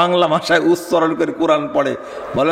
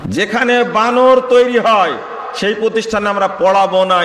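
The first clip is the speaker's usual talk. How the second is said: rousing crowd call; 6 semitones higher, 4 dB louder than usual. Real, not acted. Preacher leads the crowd's pledge.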